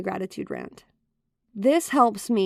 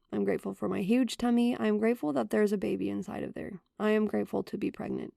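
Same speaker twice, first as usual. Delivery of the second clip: softer, heartfelt and unhurried; sincere gratitude; 4 dB quieter than usual. Shown as a demonstration. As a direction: let each thanks land gently and truly. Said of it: "feel the truth of the words I'm saying sink into my heart".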